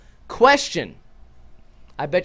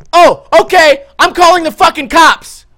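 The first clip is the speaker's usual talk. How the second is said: much higher and louder, yelling at her; furious yell; 9 semitones higher, 11 dB louder than usual. Retold or imitated. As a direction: blow up and shout it at the rude driver. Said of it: "I fucking yelled at her".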